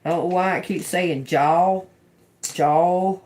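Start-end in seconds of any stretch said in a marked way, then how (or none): 2.4-3.2 "Jaw" said loud and drawn out. Shown as a demonstration. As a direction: stretch out "Jaw" with extra volume. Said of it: "like that".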